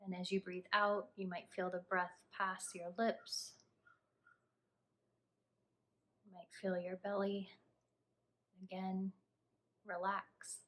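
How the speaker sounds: calm, hushed instructions, leaving space to breathe; guided meditation. Acted. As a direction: guide the listener gently through a body scan, unhurried. Leads a body scan meditation.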